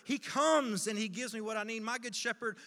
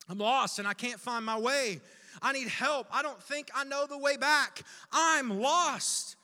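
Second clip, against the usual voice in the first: building louder and higher to a plea; mounting desperation; 3 semitones higher, 5 dB louder than usual. Acted. Lost sheep who cannot find the way, desperate. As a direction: plead for help as if lost. Acts out being lost, begging help.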